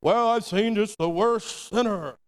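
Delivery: slow, lightly put-on pious tone; lightly voiced judgmental church member; mock churchy voice. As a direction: imitate a self-righteous churchgoer, slowly. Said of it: "we say this in the church".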